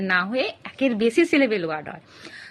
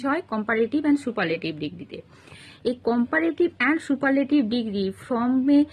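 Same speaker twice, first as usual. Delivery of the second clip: slow teaching stress; much slower than usual. Shown as a demonstration. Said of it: "teacher stresses key terms".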